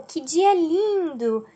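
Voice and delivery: drawn-out, mildly delighted exclamation; exclaiming. Shown as a demonstration. Teacher giving another example of exclamation, mildly delighted. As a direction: slowly exclaim with gentle delight. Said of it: "Também estou exclamando".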